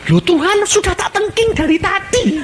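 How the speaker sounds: high, loud whining objection; exasperated protest. Acted. Believer objects to God, high and exasperated. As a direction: complain you already did it.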